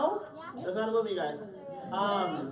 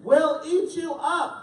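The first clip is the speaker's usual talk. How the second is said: slow, louder, higher monster threat; playful monster; 6 semitones higher, 5 dB louder, slower than usual. A narrator's reading. Reader voicing the wild things' playful threat, slow. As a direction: growl it out with a grin. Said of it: "wild things' line".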